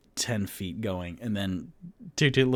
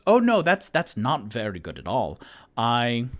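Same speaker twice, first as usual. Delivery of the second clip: nervous Toot Toot; 5 dB louder than usual. Acted. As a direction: fumble the words like a nervous little fellow. Toot Toot alarmed by threat.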